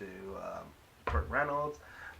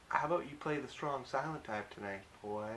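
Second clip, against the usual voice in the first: attempted southern accent, a little higher; 4 semitones higher than usual. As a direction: lightly mimic a flirty southern woman. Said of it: "I'm doing a southern accent".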